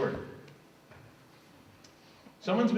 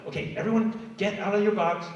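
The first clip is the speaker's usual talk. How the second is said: high, upbeat group leader voice; a facilitator herding everyone like a camp counselor; cheerful organizer; 7 semitones higher than usual. Retold or imitated. Community organizer addressing the freed pawns, high and upbeat. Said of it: "the community organizers are like".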